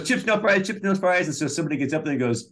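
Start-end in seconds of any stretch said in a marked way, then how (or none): 0.0-1.3 high-pitched counterman imitation; SNL diner cook. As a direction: repeat it like a diner order-caller, pitched up. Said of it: "he goes".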